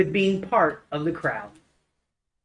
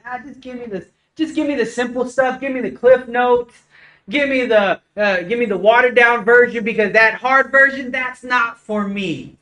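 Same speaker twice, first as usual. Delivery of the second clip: mock lazy churchgoer; 3 semitones higher than usual.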